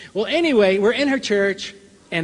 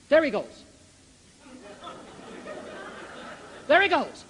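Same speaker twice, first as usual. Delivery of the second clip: retold announcement; 6 semitones higher, 3 dB quieter than usual. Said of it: "And he said".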